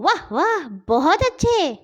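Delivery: high cheerful praise; high cheerful praise of a woman; praising. Acted. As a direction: sing out the praise lightly.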